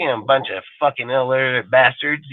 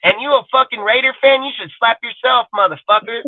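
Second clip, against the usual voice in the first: retold scolding; 10 semitones higher than usual. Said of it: "I say".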